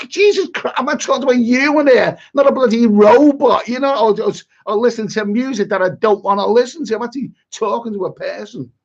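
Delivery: high, loud exclaiming disbelief; amazed disbelief. Retold or imitated. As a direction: shout it out in disbelief, pitched high. Retelling his own amazed reaction.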